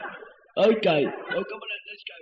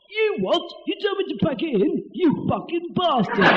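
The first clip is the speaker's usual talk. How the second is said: higher, hammed-up indignant shout; mock outrage; 4 semitones higher than usual. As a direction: play outraged but barely hold the laugh. Acted mock quarrel.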